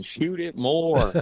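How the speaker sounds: imitation of a pleading team shout; imitating teammates yelling. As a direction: call it out slow and high, like urging teammates. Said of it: "his teammates are always yelling".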